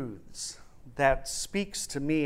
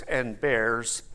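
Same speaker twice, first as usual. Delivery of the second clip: lightly voiced grim metal man; low, ominous confirmation; Tin Man; 6 semitones lower than usual. Tin Man adds one more beast, low and ominous. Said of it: "And the Tin Man goes".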